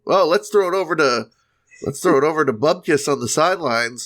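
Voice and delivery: lightly voiced TV sportscaster tossing to sideline; a hint of a cheesy broadcaster handing off; sports broadcaster. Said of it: "the guy on the sidelines".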